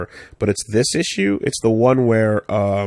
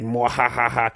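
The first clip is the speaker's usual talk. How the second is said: sinister villain laugh. Retold or imitated. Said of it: "like, this sinister".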